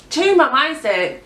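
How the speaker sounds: slow, scornful repeat of her words; incredulous mimicking of mom; mocking echo. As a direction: throw her advice back, drawn out. Echoing mom's advice in disbelief.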